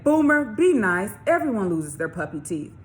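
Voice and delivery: put-on a kid telling off a bully; upset scolding. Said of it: "Roscoe got upset".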